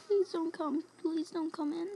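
trembling whisper. Real, not acted. Begging monster not to enter.

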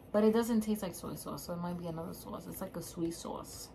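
talking while chewing food; eating and speaking at once; mouth full, chewing. Real, not acted. Seen 1: Closed lips, pushed-out cheeks and jaw work between words; tasting food.

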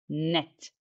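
net said alone as one chunk; isolated last syllable. Shown as a demonstration. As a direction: set net apart as its own beat. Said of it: "تالت مقطع". (net كمقطع منفصل)

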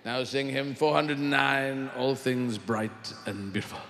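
pompous dinosaur vicar. Acted. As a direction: drone like a parish vicar.

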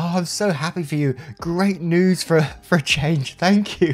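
high-pitched imitation of tearful joy; hammed-up, overcome congratulations; mock happy blubbing. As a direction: act out blubbing with happiness, pitch way up. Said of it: "I just started blubbing".

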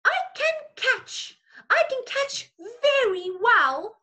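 high, bright-eyed monkey voice, lightly voiced; chirpy little monkey boasting; a hint of a playful monkey. Monkey character line in story.

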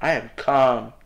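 low, controlled calm after an outburst; forced calm. Real, not acted. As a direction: drop low and insist you're calm. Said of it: "I'm calm".

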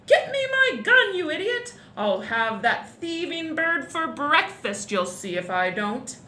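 loud demand settling into slow threat; blustering duke ordering servant; furious shouting. A narrator's reading. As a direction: start high and bellowing, sink to a menace. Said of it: "the Duke was shouting to the gardener".

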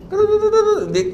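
"They" stretched long on a high held pitch; drawn-out high they. Acted. Preacher mimicking chatty women, "They" held high and long. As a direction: hold "They" up high like a singsong. Mocking how women chat.

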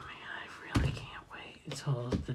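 hushed gleeful whisper. Real, not acted. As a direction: whisper it with glee. Gleeful aside about rival.

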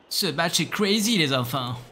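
high, slow amazed exclaim; excited. Real, not acted. Repeats line higher.

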